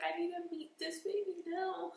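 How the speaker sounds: high, eager insistence; urgent eagerness. Retold or imitated. To the team while pushing, urgent eagerness. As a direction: demand it with excitement. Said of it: "I was just like".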